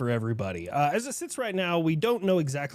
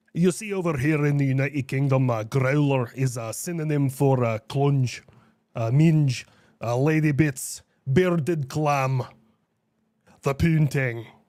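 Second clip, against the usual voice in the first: put-on Scottish accent, pretty convincing; 4 dB louder than usual. Explaining United Kingdom slang, in a Scottish accent. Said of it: "that was a pretty good Scottish accent".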